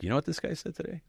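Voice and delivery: high, eager phone report to dad; gleefully telling on the chaplain; excited tattling. Retold or imitated. Son phoning his dad about the chaplain, eagerly excited.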